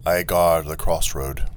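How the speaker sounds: slow, lightly robotic delivery; automaton sentry. Acted. Automaton telling the traveller its duty, lightly robotic. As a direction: state it like a machine on guard, understated.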